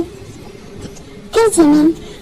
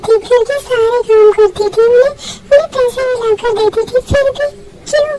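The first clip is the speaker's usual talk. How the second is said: tearful lament; 2 semitones higher than usual. Acted. Crying to friend about life.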